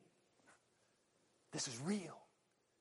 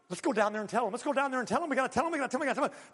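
high, urgent, repeated pleading; itching to spread the news; breathless excitement; eager disciples; 5 semitones higher, much faster than usual. Retold or imitated. Disciples eager to tell others.

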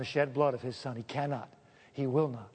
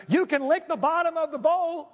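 hammed-up God voice; 10 semitones higher, 4 dB louder than usual. God voice continues, louder.

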